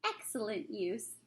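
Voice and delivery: soft, slow satisfaction; satisfied. Acted. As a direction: savor the win quietly. Sophie content after victory.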